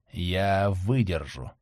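quiet and slow, under his breath; to himself. A narrator's reading. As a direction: grit it out softly to yourself. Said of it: "твердил он про себя".

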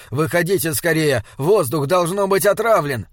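urgent alarm. Acted. Sludig warns companions of poisoned air, urgent alarm. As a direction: warn them to get out.

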